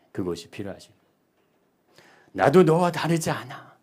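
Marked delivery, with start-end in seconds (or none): 2.3-3.8 impassioned. Shown as a demonstration. Same line repeated loud and high.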